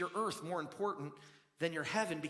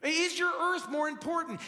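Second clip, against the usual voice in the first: pressing repeat; 8 semitones higher, 6 dB louder than usual. Shown as a demonstration. Pastor presses his question on the congregation, louder. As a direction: repeat "Is your earth more important?" higher and louder, punching "your". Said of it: "Is your earth more important to you than your heaven?".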